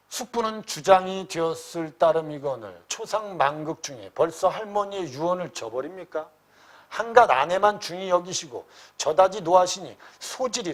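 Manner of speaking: usual speaking voice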